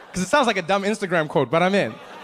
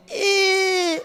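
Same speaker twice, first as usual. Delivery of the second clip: high squeezed grunt; strained grunt. Retold or imitated. Snake charmer grunting under the python, high squeezed grunt. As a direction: squeak as if crushed. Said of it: "he'd make the same sound".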